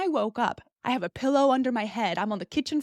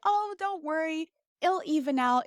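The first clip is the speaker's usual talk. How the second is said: reassuring; 7 semitones higher than usual. Retold or imitated. Everyone reassuring about implant.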